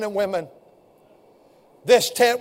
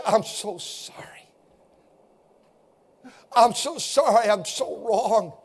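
soft apology; 6 dB quieter than usual. Pretend. Scripted apology to a parent.

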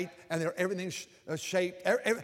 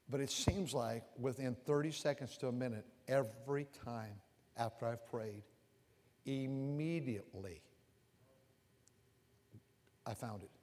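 hushed testimony; 6 semitones lower, 10 dB quieter than usual. Real, not acted. Testifying to answered prayer.

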